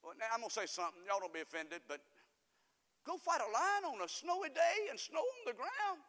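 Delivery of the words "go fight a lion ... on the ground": sarcastic. Acted. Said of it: "obviously sarcastic".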